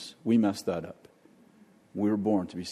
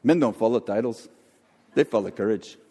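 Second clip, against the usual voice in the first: William Wallace. Retold or imitated. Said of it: "I can only do William Wallace".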